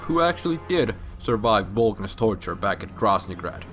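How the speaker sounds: normal talking voice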